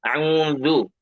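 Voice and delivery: a'udzu drawn out as the mistake; wrong recitation. Retold or imitated. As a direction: demonstrate the a'udzu to avoid, slowed. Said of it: "Jadi tidak". (contoh a'udzu yang salah, ditarik)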